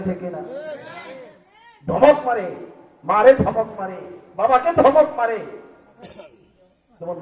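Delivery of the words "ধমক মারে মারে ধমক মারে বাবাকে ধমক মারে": raised, punchy repeated phrases; indignant preaching. Acted. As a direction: hammer each phrase at the congregation. Preacher decries scolding parents.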